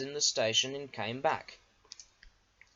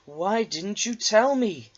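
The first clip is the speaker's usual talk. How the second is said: higher and louder outburst; indignant; 7 semitones higher, 7 dB louder than usual. A narrator's reading. Diesel outraged at Duck, higher and louder. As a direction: demand an answer.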